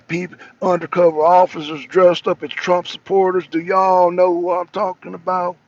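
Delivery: lightly imitated Southern congressman's accent; a touch of Cajun twang; Louisiana bayou drawl. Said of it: "he talks like this".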